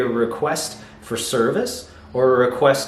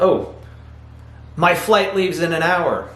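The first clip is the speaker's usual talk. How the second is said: higher, mildly alarmed mock exclamation; emotional exclamation; 5 semitones higher than usual. Shown as a demonstration. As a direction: blurt it out as a demonstrated exclamation. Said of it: "you're shouting, essentially".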